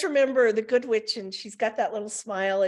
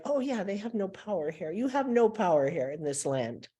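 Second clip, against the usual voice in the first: good witch. Retold or imitated. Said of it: "It's like my little wand".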